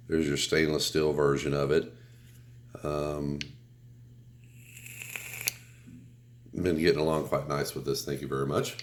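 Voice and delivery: stuffy, congested cold voice. Real, not acted. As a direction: talk through a head cold. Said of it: "why I'm sounding like a radio announcer".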